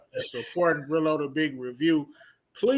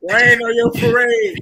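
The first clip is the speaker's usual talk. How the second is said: high, loud jeering yell; mock heckle at the winner; teasing shout; 9 dB louder than usual. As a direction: shout it to rain on their fun.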